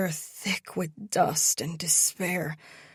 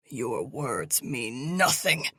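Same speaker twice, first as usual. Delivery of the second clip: cold villain; 5 semitones lower than usual. Acted. Captor dismisses coldly.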